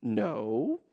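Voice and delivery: flat no. Retold or imitated. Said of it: "Which Jesus is like".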